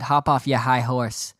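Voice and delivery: mock New York accent, dropping the r in "your"; slow, imitated New York accent. Rangers fan on Twitter scolding him, mock New York accent. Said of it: "in a New York accent".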